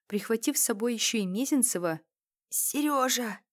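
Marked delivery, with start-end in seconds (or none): 2.5-3.4 stifled call. Acted. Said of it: "сдавленно позвала".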